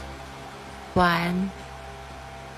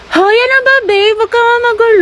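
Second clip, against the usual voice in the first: being tickled; 11 semitones higher than usual. Acted.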